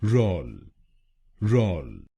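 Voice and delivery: रोल said as "rol"; syllable rol. Shown as a demonstration. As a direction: give रोल as a clear rol. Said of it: "हम बोलेंगे". (तीसरा शब्दांश रोल)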